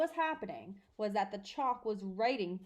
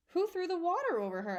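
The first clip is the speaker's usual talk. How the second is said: high sharp question; 8 semitones higher, 4 dB louder, faster than usual. Acted. Matron asks sharply.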